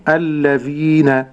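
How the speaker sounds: slow الذين with a two-count long ee; model Quranic pronunciation. Shown as a demonstration. Sheikh showing the student how to say الذين, slowly drawn out. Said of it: "كيف يكون النطق فضيلة الشيخ".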